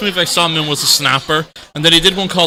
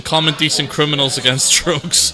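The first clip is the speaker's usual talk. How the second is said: reading a sign. Retold or imitated. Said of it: "with a sign saying".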